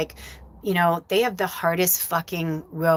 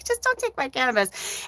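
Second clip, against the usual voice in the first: mock pleading; 6 semitones higher than usual. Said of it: "That's all I'm saying".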